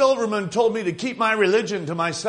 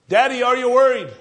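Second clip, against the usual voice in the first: put-on quick, higher and louder, a worried boy asking his father; anxious child voice; 5 semitones higher, 4 dB louder, faster than usual. Worried son asking his daddy on Passover night, anxious child voice. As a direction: ask it like a nervous little boy.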